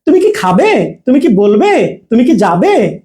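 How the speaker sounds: "তুমি কি" in one breath, then the verb; short "কি", yes-no question; fast attached কি. Shown as a demonstration. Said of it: "এখানে first হবে". ("তুমি কি" দ্রুত জুড়ে)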